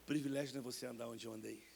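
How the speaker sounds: a hint of a calm divine voice; voice of God. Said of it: "Deus começou a falar pra mim assim".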